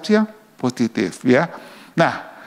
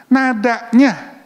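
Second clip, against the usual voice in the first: higher, slow drawn-out word; 6 semitones higher, much slower than usual. Shown as a demonstration. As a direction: stretch it out slowly, pitched up. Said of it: "kan orang kalau bilang gini".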